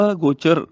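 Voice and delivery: ਅਗੋਚਰ as "a—gochar"; separated prefix. Shown as a demonstration. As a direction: split ਅਗੋਚਰ after the short a. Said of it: "ਅਗੇਤਰ ਨਾਲ ਬੋਲਣਾ ਹੈ". (ਅਗੋਚਰ ਨੂੰ "ਅ-ਗੋਚਰ" ਬੋਲੋ)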